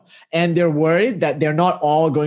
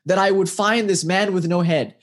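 mildly exasperated, pitch climbing on the questions; lightly acted plaintive complaint; disappointed; 4 semitones higher than usual. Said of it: "jaded and disappointed".

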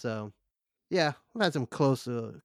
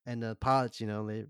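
ordinary delivery

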